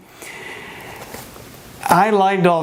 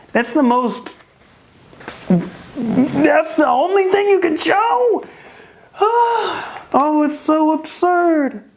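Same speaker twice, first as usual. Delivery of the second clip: incredulous disbelief; 9 semitones higher, slower than usual. Real, not acted. Mocking a weak tweet choice.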